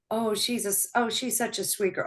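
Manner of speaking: a hint of sweet-talking onlooker; imitating others' remarks. Voicing what people would say.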